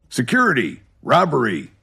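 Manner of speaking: loud, high calls for help; shouting. A narrator's reading. Birch shouts for security after falling, crying robbery. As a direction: yell for security across the store. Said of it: "he shouted".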